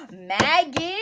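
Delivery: gasp, then call out Maggie loudly; excited shout of the name Maggie. Real, not acted. Excited greeting of chat member.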